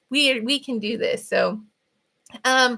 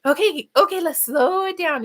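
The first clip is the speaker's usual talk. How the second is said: mock calming voice; 6 semitones higher, 3 dB louder than usual. Shown as a demonstration. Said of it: "just go".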